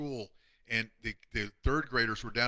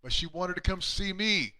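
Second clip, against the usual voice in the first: emotional; 8 semitones higher, 3 dB louder than usual. Real, not acted. Emotional emphasis on safe place.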